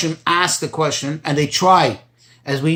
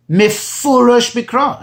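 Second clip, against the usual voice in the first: mefurash drawn out slowly and higher; stress on mefurash; 4 semitones higher, slower than usual. Retold or imitated. Teacher citing what the Rebbe emphasizes, slow stress on mefurash. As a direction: lean hard on "mefurash", stretching it out. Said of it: "And the Rebbe emphasizes mefurash".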